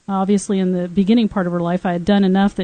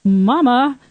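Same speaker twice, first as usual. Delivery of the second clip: imitating her daughter; 5 semitones higher, much slower than usual. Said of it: "Are you hungry?".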